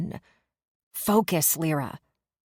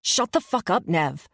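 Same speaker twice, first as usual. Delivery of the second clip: snapping. Acted. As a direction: cut her off hard. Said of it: "Day snaps".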